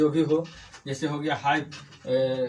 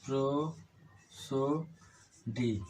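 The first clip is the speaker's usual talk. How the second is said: very slow, softer, a gap after each syllable; 2 semitones lower, 7 dB quieter, much slower than usual. Shown as a demonstration. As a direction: stretch प्रोसोडी into separate, quiet pieces. Teacher breaks word up while writing.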